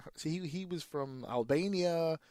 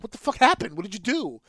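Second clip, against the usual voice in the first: baffled outburst; 6 semitones higher, 7 dB louder than usual. Retold or imitated. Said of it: "He's like".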